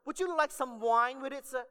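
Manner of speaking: high, loud, hammed-up Italian waiter accent; second try at Italian accent. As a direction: belt it out like a mock Italian waiter. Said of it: "Sorry, wrong accent".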